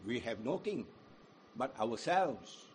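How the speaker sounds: hushed self-rule confession; quiet and low. Acted. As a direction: let it sink down quietly. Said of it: "contrasting low take".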